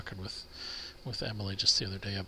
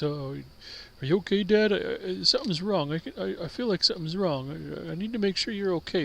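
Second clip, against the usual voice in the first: put-on dog voice, much higher pitch; 9 semitones higher than usual. Recreating her talking as the dog to Dad, in a mock dog voice. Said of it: "her do a mock dog voice".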